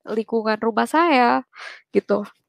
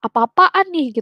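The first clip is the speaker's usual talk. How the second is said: mock angry outburst; 6 semitones higher, slower than usual. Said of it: "Terus dia sempet marah".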